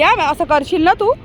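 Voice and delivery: ordinary delivery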